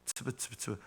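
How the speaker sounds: very soft buzzing syllables; fly buzzing imitation. Shown as a demonstration. Preacher shows how a fly sounds, very quiet imitation. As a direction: imitate a fly under your breath. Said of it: "파리 날아다니는 소리 비슷하죠".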